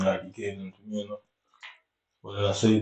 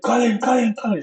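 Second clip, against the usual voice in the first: shouting a name; 13 semitones higher than usual. Retold or imitated. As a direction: call the name across the pitch. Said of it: "started shouting my name".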